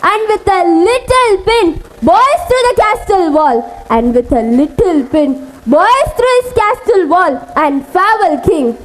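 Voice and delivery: measured Shakespeare monologue, phrase by phrase; dramatic recitation. Acted. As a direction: recite it as a king's tragic speech.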